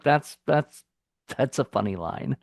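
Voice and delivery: mildly amused appreciation, no laugh; note a funny line matter-of-factly; understated amusement. Acted. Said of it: "it made me laugh like".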